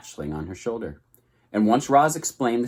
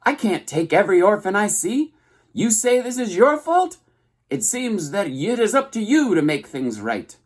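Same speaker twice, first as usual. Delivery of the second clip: high, loud scolding squawk; scolding goose; 11 semitones higher, 4 dB louder than usual. A narrator's reading. Goose telling the robot to make things right, high squawk. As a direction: lecture like a bossy old goose.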